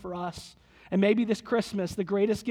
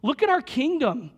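lightly acted protest, higher pitch; Anna; 4 semitones higher than usual. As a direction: quote a sister's objection. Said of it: "And Anna says".

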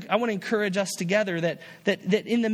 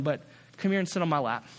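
fatherly; 4 semitones lower, faster than usual. Acted. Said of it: "like a father talking to his son".

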